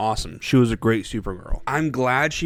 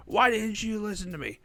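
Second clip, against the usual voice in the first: put-on higher, exasperated hero scolding the kid; mock scolding hero; 11 semitones higher than usual. Supergirl scolding the disobedient girl, mock exasperated. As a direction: play Supergirl scolding the kid who wandered off.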